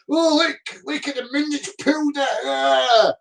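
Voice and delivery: mocking believers' awe; mock amazement. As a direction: gasp like a fool at the moon. Mocking globe believers' claim.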